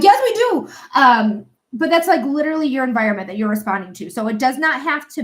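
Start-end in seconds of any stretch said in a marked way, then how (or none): 0.0-0.7 much higher and louder squeaky answer; cat voice. Acted. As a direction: squeak back as the hungry cats. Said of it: "'Cause I'm like".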